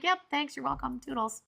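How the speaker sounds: high, sing-out mock dismissal; imitating a breezy, polite brush-off. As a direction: toss off a cheery goodbye in a high voice. Imagined brisk celebrity brush-off.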